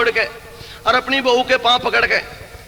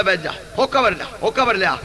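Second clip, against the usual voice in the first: grandfather voice; 4 semitones lower, 3 dB quieter than usual. Retold or imitated. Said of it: "नु बोला".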